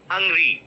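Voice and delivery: "hungry" with an unrounded uh, as hung-ree; open, short uh at the start of "hungry"; correct pronunciation. Shown as a demonstration. Teacher correcting the students' mistake, correct "hungry" with uh. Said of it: "That is wrong".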